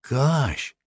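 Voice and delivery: put-on high, drawn-in awe of a boy; awed. A narrator's reading. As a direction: say it in high-voiced wonder.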